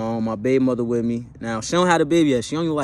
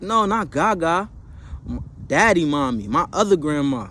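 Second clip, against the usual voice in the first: put-on higher childlike plea; little kid voice; 3 semitones higher than usual. Two-year-old son asking dad in car, childlike. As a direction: voice a small boy asking sweetly. Toddler son corrects parents.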